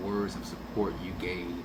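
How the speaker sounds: ordinary talk, nothing marked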